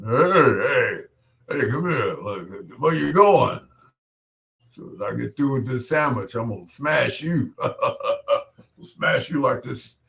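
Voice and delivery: lightly voiced bully who is nasty for no reason; a tough guy threatening between bites of his sandwich; Big Jake Nasty. DJ playing his bully character Big Jake Nasty on air, hammed-up and mildly menacing. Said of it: "this character called Big Jake Nasty".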